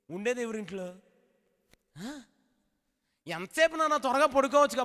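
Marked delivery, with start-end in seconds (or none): 3.3-4.8 high, sharp call of a scolding mother; mother scolding her son about his phone, high and sharp. Retold or imitated. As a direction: nag the kid off his phone.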